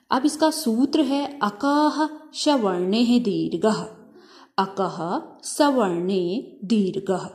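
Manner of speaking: each word of अकः सवर्णे दीर्घः said slowly and set apart; slow sutra recitation. Shown as a demonstration. Teacher to class, reciting the sutra slowly. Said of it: "ठीक है, इसका सूत्र है दीर्घ संधि का".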